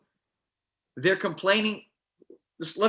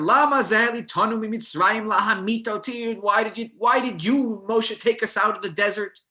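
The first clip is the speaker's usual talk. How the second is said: higher, hammed-up whiny complaining; grumbling complaint; 5 semitones higher than usual. The people complaining to Moshe, hammed-up whine. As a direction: lay on the self-pity, mock grumbling. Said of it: "they were grumbling and they were complaining".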